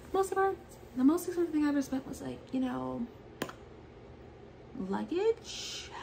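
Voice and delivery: imitating Brett. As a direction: ham up the proud boyfriend bragging. Brett quoted, voice put on.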